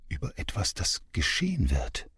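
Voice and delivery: breathy secret whisper. Acted. Dream voices murmuring to the girl, whispered. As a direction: hush it like a secret in the dark.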